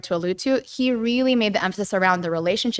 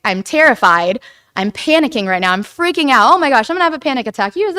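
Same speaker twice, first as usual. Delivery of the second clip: louder, rushed mock panic, freaking out; 4 semitones higher, 5 dB louder than usual. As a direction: act out a half-hammed panic attack, faster at the end. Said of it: "us being able to say".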